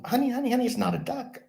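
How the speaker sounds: hammed-up patient parent; exasperated parent. Parents at the game begging their son, high exasperated mock voice.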